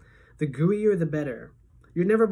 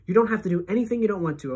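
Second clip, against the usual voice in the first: urgent; 5 semitones higher, 3 dB louder, faster than usual. Acted. Principal hurriedly soothing panicked boy.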